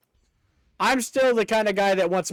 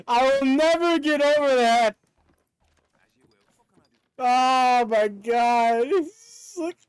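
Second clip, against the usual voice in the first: high, giddy laughing gush; delighted laughing; 5 semitones higher, slower than usual. Real, not acted. Gamer gushing over Guzzlord's scream, high giddy laughter. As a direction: gush between laughs, voice squeaking.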